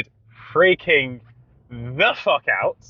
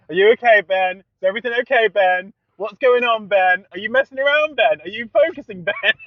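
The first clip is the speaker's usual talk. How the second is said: nagging dad; 5 semitones higher, 4 dB louder than usual. Retold or imitated. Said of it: "the dad kept going".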